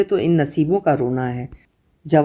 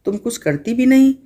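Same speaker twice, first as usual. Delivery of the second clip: higher, sharp scolding tone; 7 semitones higher than usual. Acted. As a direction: tell her off, exasperated. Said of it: "निजहत ने डांटा". (ऊँचे सुर में डाँटते हुए)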